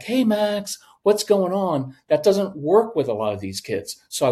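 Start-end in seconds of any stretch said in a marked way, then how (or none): 0.0-2.0 "Hey, Max" pitched high, sugary and gentle; sweet coaxing. Retold or imitated. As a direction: coax a scared kid sweetly, lightly imitated. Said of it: "we talk really sweetly".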